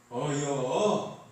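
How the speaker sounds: very slow, drawn-out Chungcheong 어여; lazy Chungcheong 어여; short Chungcheong reply. Shown as a demonstration. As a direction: stretch 어여 out slowly, Chungcheong style. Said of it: "충청도는 어떻게 하죠".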